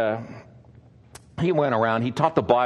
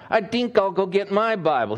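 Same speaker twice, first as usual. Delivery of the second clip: a higher, put-on Norwegian accent; a keen Norwegian man, mock Norwegian accent; light Norwegian accent; 7 semitones higher than usual. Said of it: "He was Norwegian".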